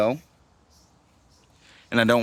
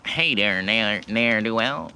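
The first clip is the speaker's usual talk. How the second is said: evil villain voice; slower than usual. Shown as a demonstration. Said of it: "evil villain voices".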